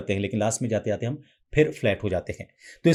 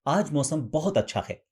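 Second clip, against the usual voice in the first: a touch lighter, feminine take on the line; slightly feminine; 3 semitones higher than usual. Shown as a demonstration. Voice coach showing the same line a little more feminine. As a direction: ease the line toward a feminine tone. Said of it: "अब इसे थोड़ा सा feminine करेंगे".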